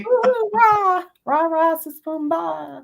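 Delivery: high, loud pep chant; cheerleader. Pretend. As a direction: shout it like a cheer squad. Joins the cheerleader bit.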